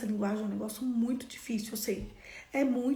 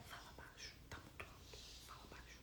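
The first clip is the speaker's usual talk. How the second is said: barely audible whisper; very quiet whisper; 23 dB quieter than usual. Shown as a demonstration. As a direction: whisper it discreetly to hush someone. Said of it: "Bem baixinho, assim".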